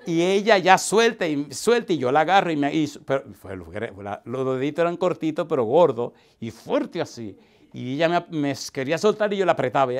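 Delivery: loud, excited telling of the struggle. Real, not acted. Preacher describing wrestling hands with an old lady, excited and loud. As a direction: tell the hand tug-of-war with energy. Excited tug-of-war retelling.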